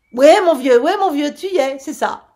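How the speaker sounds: a loud, high furious shout; furious outcry. A narrator's reading. The captain shouts at the four fools mocking his story, furious. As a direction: cry it out, fit to smash their faces. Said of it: "s'écria le capitaine Michel".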